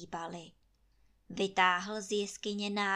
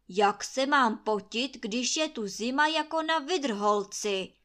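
loud, angry tirade ending in sneezes; furious scolding; 3 semitones higher, 10 dB louder than usual. A narrator's reading. Landlord raging at his lazy servants, loud and angry. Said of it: "nadává Trautenberg".

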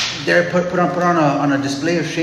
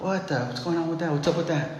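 softer, puzzled asides; mock bafflement; 7 dB quieter than usual. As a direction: play dumb, a touch bewildered.

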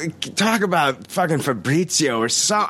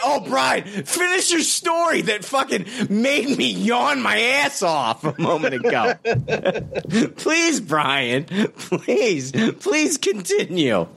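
sarcastic; 9 semitones higher, slower than usual. Retold or imitated. Sarcastic plea imitating cohost.

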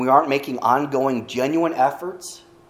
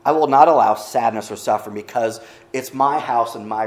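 commanding voice of God, louder; 5 dB louder than usual. Acted. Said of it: "That's my God voice".

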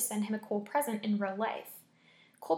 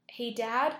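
a nervous call down the hall, slightly louder; 3 dB louder than usual. Acted. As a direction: call out to Dad, a little uneasy. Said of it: "he called out nervously".

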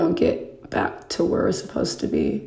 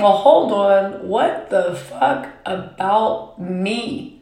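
indignant self-assertion; slower than usual. Retold or imitated. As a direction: drag it out, then burst up in protest. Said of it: "I start saying".

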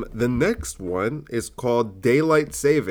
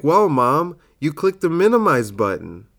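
higher, louder mock exasperation; punched-up retelling; 4 semitones higher, 4 dB louder than usual. Son correcting mom in a retold joke, punched up and higher. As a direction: sell the punchline harder. Punchline redone with more energy.

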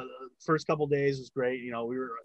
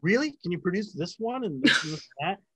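higher, louder mock disbelief; incredulous producer; 4 semitones higher, 3 dB louder than usual. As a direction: challenge him with a sceptical high "really?". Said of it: "the executive producer's like".

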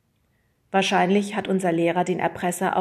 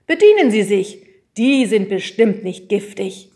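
friendly smiling, louder invitation; smiling offer; 2 semitones higher, 9 dB louder than usual. A narrator's reading. Teacher offers the disguised boys biscuits, smiling. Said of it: "lächelte der Englischlehrer".

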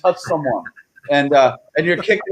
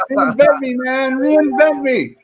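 hyped catchphrase; 10 semitones higher, slower than usual. Real, not acted. Guest hyping his own name tag.

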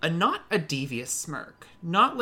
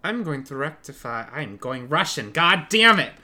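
put-on Russian accent; 5 dB louder than usual. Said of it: "I'm losing the accent".

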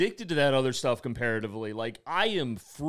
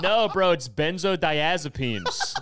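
laughing; 4 semitones higher, 6 dB louder, slower than usual. Retold or imitated. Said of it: "I'm like".

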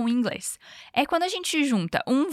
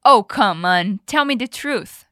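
indignant disbelief; 7 dB louder, slower than usual. Acted. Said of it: "O Noah não cai nesse papinho".

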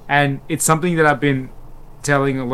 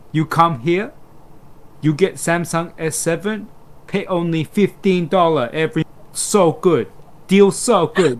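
put-on light Persian salesman accent, pitched a bit higher; imitated accent; 4 semitones higher than usual. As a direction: lightly mimic the Persian mate's broken sales English. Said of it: "he'd put on this accent".

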